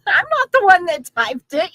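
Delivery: giggling through the words; laughing. Real, not acted. Teasing a viewer over her typo, laughing.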